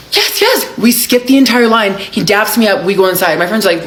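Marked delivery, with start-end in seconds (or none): 0.1-0.8 high, delighted yes yes; thrilled yes. Retold or imitated. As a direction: squeal of relief. Thrilled to skip line.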